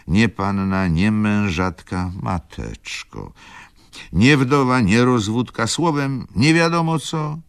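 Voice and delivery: high, loud agitated mother; bitter mother's outburst. Acted. Mother telling daughter her husband is dead, high and loud. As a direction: rise into a bitter lament.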